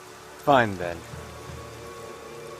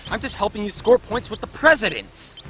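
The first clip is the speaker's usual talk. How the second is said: raised, higher-pitched objection; exasperated outburst; indignant protest; 4 semitones higher than usual. Acted. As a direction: protest at being used. Indignant objection to being used.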